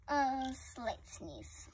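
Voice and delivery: "A slight sneeze" whispered softly and slowly. Shown as a demonstration. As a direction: hush it out slow.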